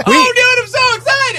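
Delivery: excited high voice. Retold or imitated. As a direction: squeal it like an overexcited kid. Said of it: "When you're excited!".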